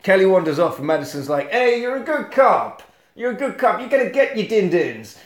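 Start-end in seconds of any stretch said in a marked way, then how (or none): 1.5-5.2 mock encouragement. Cop soothes partner, acted quote.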